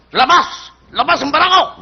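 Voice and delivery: acted tough guy calling everyone out; bold challenge. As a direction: challenge the whole street to a fight. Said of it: "Ba, matapang to".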